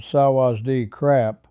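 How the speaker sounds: slow Thai greeting in an American drawl; halting beginner Thai, American accent; butchered Thai. Shown as a demonstration. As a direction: say the Thai words slowly with a West Virginia drawl. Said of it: "started butchering my few words out loud".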